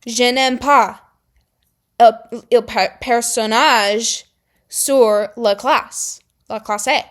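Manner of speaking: halting slow schoolbook French; slow, halting English-accented French; broken French. Shown as a demonstration. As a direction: stumble through French from school. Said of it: "that's pretty much how far my French can take me".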